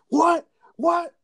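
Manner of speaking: high, loud disbelieving What; shocked at the news, rising. Retold or imitated. Friend on speakerphone hearing the news, shocked. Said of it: "Jacob's like".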